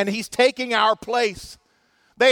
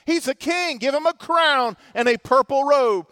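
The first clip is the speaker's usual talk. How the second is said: mocking soldiers; 4 semitones higher than usual. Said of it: "they continue in their mocking and they say".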